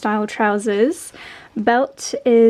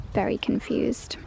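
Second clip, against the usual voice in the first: whispering; 7 dB quieter than usual. Real, not acted. Quiet aside about the dogs.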